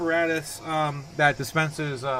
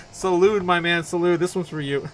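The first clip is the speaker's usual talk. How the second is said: toasting loudly; 3 semitones higher, 8 dB louder than usual. Real, not acted. Toasting a viewer.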